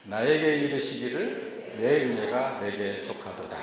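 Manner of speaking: measured scripture recital; slow group reading. Shown as a demonstration. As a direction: read it out slow and steady, 내 weighted. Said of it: "시작".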